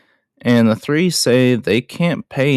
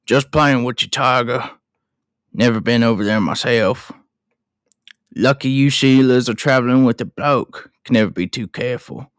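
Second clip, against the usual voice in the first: lightly put-on Australian accent; Mick Taylor. Mick teases the travellers, amateur Australian accent. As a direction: have a go at casual Australian. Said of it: "I wish I could do his accent".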